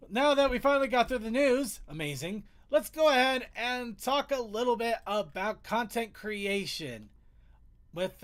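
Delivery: usual speaking voice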